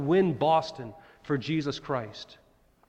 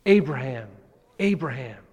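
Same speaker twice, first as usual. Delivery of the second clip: calling out; 4 dB louder than usual. Retold or imitated. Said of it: "the father cries out and says".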